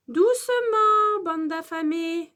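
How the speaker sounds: high, loud, drawn-out call for calm; maîtresse qui freine. A narrator's reading. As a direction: rein in an eager class, stretching the first word. Teacher restrains hungry class. (maîtresse qui tempère, voix forte)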